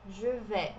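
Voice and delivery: Je vais said as "zhuh veh"; silent S. Shown as a demonstration. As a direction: leave the S off vais. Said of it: "o S não é pronunciado".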